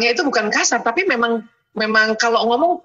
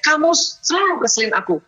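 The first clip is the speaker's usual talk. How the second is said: mock angry accusation, raised pitch; imitating angry wives; 5 semitones higher than usual. Wife scolding her husband out of anger, imitated angrily. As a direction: lean on the repeated complaint in mock exasperation. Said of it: "karena saking marahnya ngomongnya".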